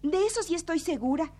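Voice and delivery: normal talking voice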